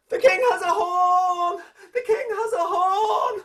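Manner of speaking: high, loud, slow cry from the mountaintop; shouted secret. Acted. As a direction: release the secret to the whole valley. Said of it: "and he shouted".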